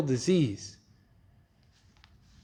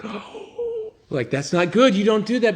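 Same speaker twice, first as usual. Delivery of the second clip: scandalised gasp with a laughing cry; half-laughing, half-crying outrage; shocked crowd; 3 semitones higher than usual. Retold or imitated.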